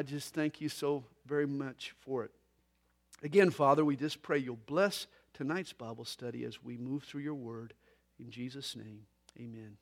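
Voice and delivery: low, hushed prayer fading to the amen. Real, not acted. Pastor closing a short prayer before Bible study, low and hushed prayer. Prays with congregation.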